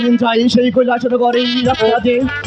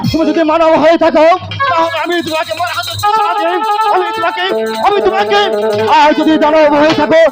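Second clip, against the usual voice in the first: hammy stage actor; 2 semitones higher than usual. Acted. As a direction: bellow it like a stage god demanding answers. Shiva challenges stranger, shouting.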